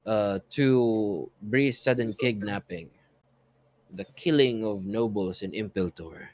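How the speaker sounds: slow, measured scene setting with pauses; game master gradually painting the scene; game master narration. A narrator's reading. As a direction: narrate it unhurriedly, weighing each phrase.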